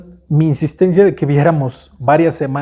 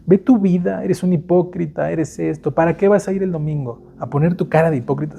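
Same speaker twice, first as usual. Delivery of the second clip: mocking inner voice; 3 semitones higher, 3 dB quieter than usual. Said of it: "viene la vocecita".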